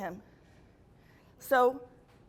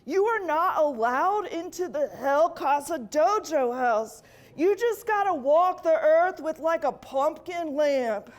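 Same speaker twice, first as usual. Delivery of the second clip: mock devil complaint. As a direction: whine it like a cheated bro. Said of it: "the devil comes back like".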